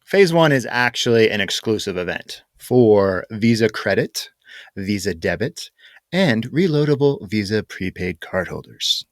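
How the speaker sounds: measured corporate spokesperson read. Pretend. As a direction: list it like a lightly put-on company announcer. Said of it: "Put on my corporate voice".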